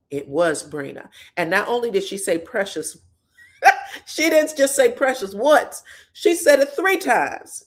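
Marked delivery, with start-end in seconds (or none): 3.6-7.6 laughing excitement. Real, not acted. Gleeful reveal of the footage.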